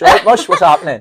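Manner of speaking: high, loud "All right, mush" in a Swansea accent; hammed-up Swansea greeting in a Welsh accent. Shown as a demonstration. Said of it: "Say mush".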